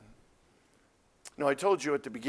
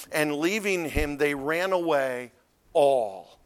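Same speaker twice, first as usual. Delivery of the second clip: "all" set apart after a pause, louder; stress on "all"; 5 dB louder, slower than usual. Shown as a demonstration. Preacher showing Mark's emphasis on the last word, "all" stressed by itself. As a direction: hold back, then land on "all" alone. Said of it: "Mark wants to emphasize".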